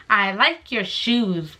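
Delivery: "I like your shoes" drawn out slowly; slow self-quote. Retold or imitated. Quoting her own compliment to him, slow and deliberate. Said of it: "I only said".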